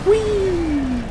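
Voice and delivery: high gleeful squeal; excited whee. Real, not acted. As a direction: let out a delighted high squeal. Gaming excitement.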